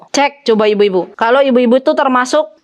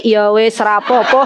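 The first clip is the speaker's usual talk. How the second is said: laughing mock acceptance; 3 semitones lower, slower than usual. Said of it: "kalau suaminya bilang".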